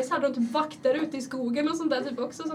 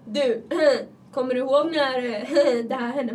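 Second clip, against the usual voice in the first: mock nosy classmate; 5 dB louder, slower than usual. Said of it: "alltid någon som bara".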